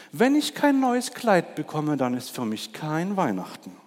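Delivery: a vain peacock showing off. Acted. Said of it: "sagte der Pfau". (Der eitle Pfau will ein neues Kleid, hoch und gedehnt)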